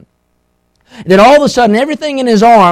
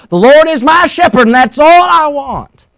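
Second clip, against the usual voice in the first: blurted out; 10 semitones higher, 5 dB louder than usual. Retold or imitated. Nervous girl finishing her psalm before church, blurted out. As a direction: imitate a little girl blurting out her verse. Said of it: "finally she blurted out".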